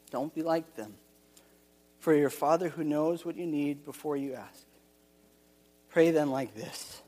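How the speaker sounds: measured, earnest Bible reading; scripture reading. Acted. Pastor reading Matthew six to the congregation, measured and earnest. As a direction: read the passage as holy text. Reads the scripture passage aloud.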